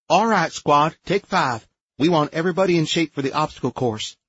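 loud, high call to the squad. A narrator's reading. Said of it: "turned around and called out".

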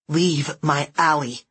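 put-on slow, firm nasal kid; bossy nasal girl. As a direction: warn them off. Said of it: "bossy nasal voice".

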